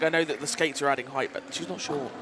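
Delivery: ordinary delivery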